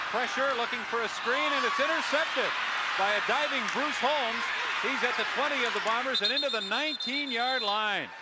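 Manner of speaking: live play-by-play building to a shout at the pick; excited play call. Real, not acted. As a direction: call the interception with a jump in energy.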